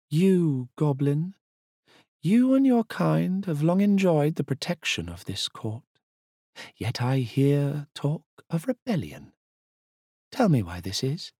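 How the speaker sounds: cold elven queen, high and commanding; haughty fairy queen. Acted. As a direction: look down on the goblin from the throne. Queen addresses goblin.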